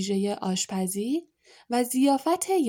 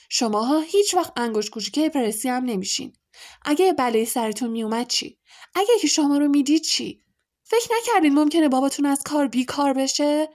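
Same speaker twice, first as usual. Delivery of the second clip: higher, louder angry yelling; furious shouting; 5 semitones higher, 4 dB louder, faster than usual. A narrator's reading. Mother yelling at her sons about the danger, furious. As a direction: keep raging at them, finger wagging. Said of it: "به این داد و فریاد ادامه دهد".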